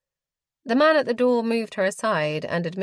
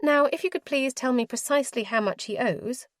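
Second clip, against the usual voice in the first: higher, prim lady's voice, businesslike; proper and firm, voiced a bit higher; formal young lady; 6 semitones higher than usual. A narrator's reading.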